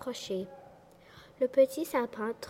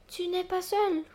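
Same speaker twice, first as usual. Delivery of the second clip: talking tree; 9 semitones higher, 4 dB louder than usual. Acted. Old tree's voice calls out.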